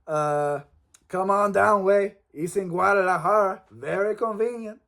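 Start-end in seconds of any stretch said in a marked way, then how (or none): 1.1-4.8 put-on Mexican accent. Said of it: "I don't know where my accent went".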